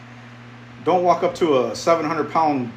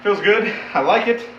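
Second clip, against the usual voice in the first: Jim Carrey impression. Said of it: "That's my Jim Carrey impersonation from Dumb and Dumber".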